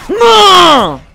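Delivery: high, loud, falling howl; long shouted no. Real, not acted. Player killed in the match, howling a long no. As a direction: howl it out in frustration.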